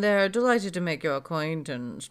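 mock-aristocratic delight; snooty party guest. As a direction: play a pompous noble at a party.

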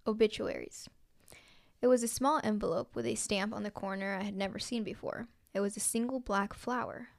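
measured, even read-aloud delivery; story narration. A narrator's reading. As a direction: read it out clearly like a written story. Reads own story aloud.

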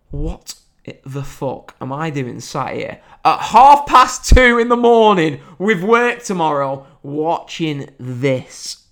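slow, loud disbelief at himself; slow exasperated self-questioning; exasperated rant. Retold or imitated. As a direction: spell out how absurd it is. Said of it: "I thought".

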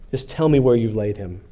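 understated, worn-out exasperation; numb exasperation. Acted. Grieving Mary asks where the body is, numb exasperation. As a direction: plead wearily, with little feeling left. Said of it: "this kind of numb exasperation in her voice".

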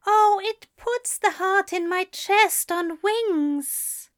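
high, slow, lifted recital; recited. A narrator's reading. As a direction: recite it soaring. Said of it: "the angel recited".

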